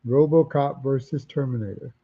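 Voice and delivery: talking through a yawn; words stretched by a yawn. Real, not acted. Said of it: "Excuse me for my yawning".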